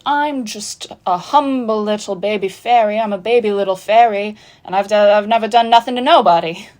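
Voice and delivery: put-on meek little fairy; humble baby fairy act. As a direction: plead innocence in a hammed-up fairy voice. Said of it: "and she's like".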